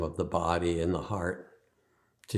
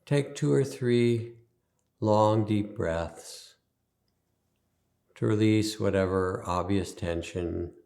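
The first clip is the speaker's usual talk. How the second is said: guided meditation. Acted. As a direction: ease them into stillness, leaving space after each instruction.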